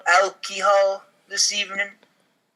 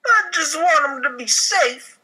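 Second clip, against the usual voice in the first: mock crying; 7 semitones higher than usual. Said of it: "walks away crying a little bit".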